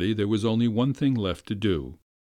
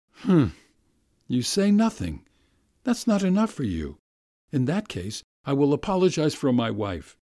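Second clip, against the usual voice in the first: a touch of wounded pride, pitched higher; huffy gentleman; 4 semitones higher than usual. Acted. Master apologizing for his wife, mildly huffy. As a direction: harrumph and push the apology. Nikolay voiced, hurt.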